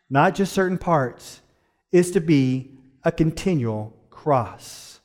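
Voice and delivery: slow, deliberate quote reading. Real, not acted. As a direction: read it slowly, pausing between phrases. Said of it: "I'll read it slowly".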